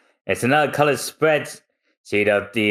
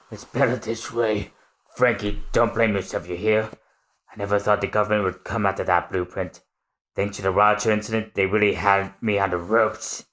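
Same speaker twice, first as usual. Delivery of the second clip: softer, calm consolation; gentle Tom; 3 dB quieter than usual. Acted. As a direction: reassure the boy gently.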